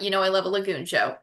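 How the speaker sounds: dry, quick mock enthusiasm; sarcastic. Real, not acted. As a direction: claim to love it with understated sarcasm. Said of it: "That was the sarcasm in my voice".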